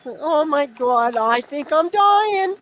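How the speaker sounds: New York Jewish mother. Retold or imitated. Son mimics his New York Jewish mother begging for a call. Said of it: "like a New York Jewish mother".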